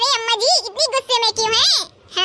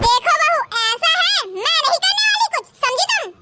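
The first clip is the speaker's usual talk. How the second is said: defiant refusal; 4 semitones higher than usual. Acted. Mother-in-law refuses chores.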